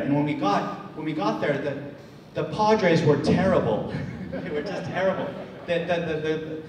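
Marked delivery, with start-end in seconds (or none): 2.3-6.6 laughing through the words; amused by the memory, chuckling. Real, not acted. Speaker to audience about the terrible Padres, laughing.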